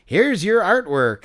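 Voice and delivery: high, slow, stilted reveal; canned hot dog host. Acted. Hot dog character presents the artwork, canned and drawn out. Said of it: "that's a good impression that you're doing".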